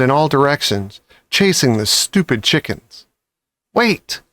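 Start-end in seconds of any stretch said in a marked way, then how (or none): 3.7-4.2 commanding. A narrator's reading. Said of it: "ordered Mister Fox".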